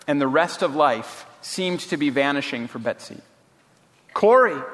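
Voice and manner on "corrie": high, louder excited call. A narrator's reading. Betsy calls her sister, excitedly. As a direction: call the name with sudden excitement. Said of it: "she said excitedly".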